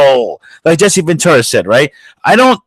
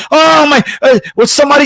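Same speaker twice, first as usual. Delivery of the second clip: high mock whine of a pampered star; mocking celebrity; 11 semitones higher than usual. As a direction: squeal it like a spoiled rich woman. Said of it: "with your fucking".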